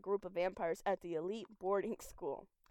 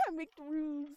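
laughing; 5 semitones higher than usual. Real, not acted. Echoes it laughing.

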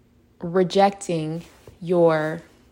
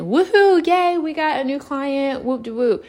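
mock celebration, higher pitch; excited cheer; 7 semitones higher, 3 dB louder than usual. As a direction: cheer like you just won. Business celebrates new contract.

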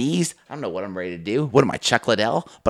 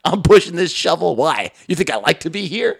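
mock retort; 5 semitones higher than usual. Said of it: "It's like".

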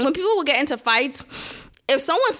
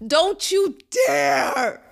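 slow, cry-like don't you dare; warning; 3 semitones higher, much slower than usual. Real, not acted. Warning a partner not to spit, slow fierce warning.

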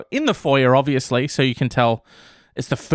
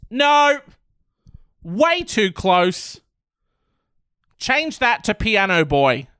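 mock owner. Owner voiced rejecting titles.

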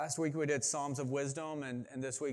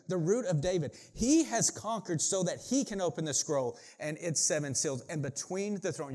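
emphatic, dramatic Bible reading; preacher proclaiming a passage; scripture reading; 2 semitones higher, 4 dB louder than usual. Acted. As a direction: declare the verse with lifted energy. Reads scripture to congregation.

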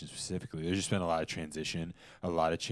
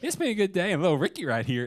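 higher, louder mock Southern voice; hammed-up Southern twang, pitched up; imitated Southern accent; 11 semitones higher, 5 dB louder, faster than usual. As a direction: retell it as the Southern stage character. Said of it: "she said".

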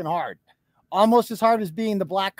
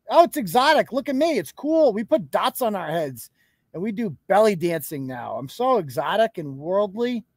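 mock liberal white woman. Streamer mocks a woman dressing up as brown people, gushing. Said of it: "this liberal white woman".

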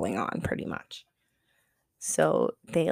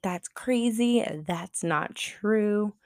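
mock denial; 3 semitones higher, much slower than usual. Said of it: "She's like".

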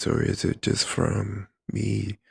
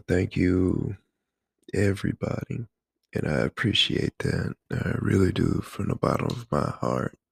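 projected, louder thank-you; louder, fuller voice; 3 dB louder than usual. Real, not acted. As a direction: turn it up and project. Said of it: "If you want it even better than that".

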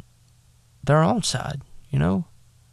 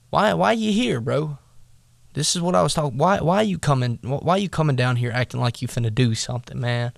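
put-on slangy older brother; faster than usual. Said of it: "I'm just gonna say it like I would".

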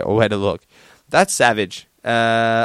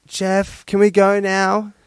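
put-on higher-pitched small child voice; first attempt at a pleading little girl; little sister; 9 semitones higher, slower than usual. Little sister tugging at her brother's arm, high child voice. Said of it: "his little sister started tugging on his arm and saying".

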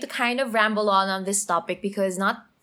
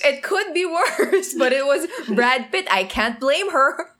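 laughing along, half joking; 5 semitones higher, 3 dB louder than usual. Real, not acted. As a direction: speak through giggles. Laughing at the Brad Pitt joke.

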